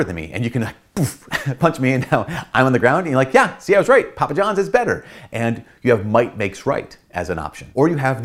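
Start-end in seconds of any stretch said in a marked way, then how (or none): 3.3-5.0 high, loud gloat; gloating mock triumph. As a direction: crow over your win like a playground bully. Gloating winner after punch.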